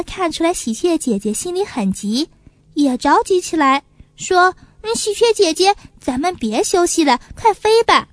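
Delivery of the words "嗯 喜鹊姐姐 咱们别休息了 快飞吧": little pigeon urging. Acted. Little pigeon urging magpie sister onward, higher eager child voice. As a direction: push to hurry on.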